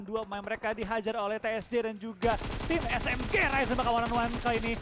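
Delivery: rapid, building esports call; live play-by-play. Real, not acted. Caster calling a one on one live, urgent play-by-play.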